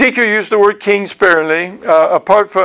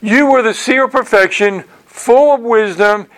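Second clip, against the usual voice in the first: higher-pitched reading of a verse; scripture reading; 4 semitones higher than usual. Acted. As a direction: read it out as a lofty Bible line. Reads scripture aloud.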